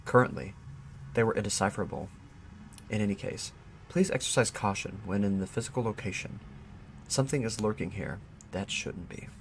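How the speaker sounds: soft, measured reading of a case report; report read aloud. Acted. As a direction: read out an eerie written report, softly.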